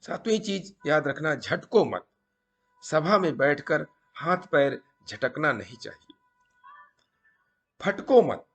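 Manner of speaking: deliberate storytelling, pausing between phrases; moral story narration. A narrator's reading. Storyteller passing a sadhu's maxims to viewers, measured emphatic narration. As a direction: narrate like a teaching tale, punching each maxim.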